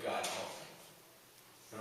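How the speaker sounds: very slow, breathless whisper of "God, help me"; whispered prayer. Retold or imitated. A soldier whispering his plea to God, very slow.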